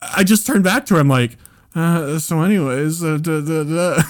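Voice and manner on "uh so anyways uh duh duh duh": awkward deflection. Retold or imitated. Acts awkwardly turning back to girlfriend.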